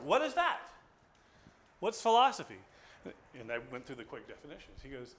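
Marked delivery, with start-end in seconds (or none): 0.0-2.6 high and loud, puzzled outburst; baffled surprise. Retold or imitated. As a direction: sound baffled at the word. Businessman baffled by philosophy.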